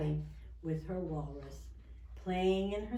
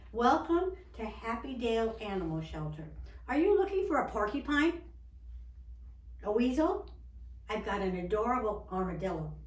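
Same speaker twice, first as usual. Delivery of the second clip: lightly acted salesman, higher and louder; a touch of storybook showmanship; eager shelter keeper; 4 semitones higher, 4 dB louder than usual. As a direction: welcome a customer with a lively pitch. Shelter keeper greets a customer.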